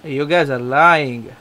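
slow, hammed-up Indian accent; exaggerated Indian-accented accusation; funny Indian accent. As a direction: draw it out in a mock Indian accent. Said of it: "cut with that funny accent".

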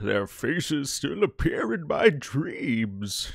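slow, drawn-out put-on voice; put-on character voice. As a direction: act out an old war memory in a strange, slowed-down voice. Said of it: "I don't know why I did that voice".

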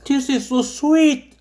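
very slow, drawn-out and dreamy; slow dreamy English. Pretend. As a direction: stretch every word out in bliss. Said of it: "savouring cereal in slow English".

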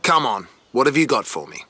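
loud, rising astonishment; can't believe what you're seeing; excited discovery. Real, not acted. Excited discovery of rare Maserati.

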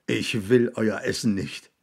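mildly desperate refusal; desperate cry. A narrator's reading. William rejecting the boys' food, mildly desperate. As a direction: refuse with a touch of despair. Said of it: "rief William verzweifelt".

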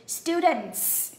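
Students with a clear hissed final S. Shown as a demonstration. Teacher to pupils, Students with the final S hissed out. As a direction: lean on the S at the end of Students. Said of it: "các em xì giùm cô chữ S".

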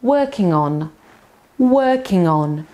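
working on run together as one word, working-on; working on said smoothly, with no gap between the words; linked words. Shown as a demonstration. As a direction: glue on onto the end of working. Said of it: "on przyklei się do słowa working".

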